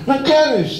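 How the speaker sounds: incredulous. Retold or imitated. Boss incredulous.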